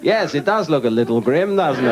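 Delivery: stiff upper lip Englishman. Retold or imitated.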